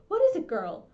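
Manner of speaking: put-on a touch of a creaky old lady, loud; old neighbour calling out sharply; old woman calling.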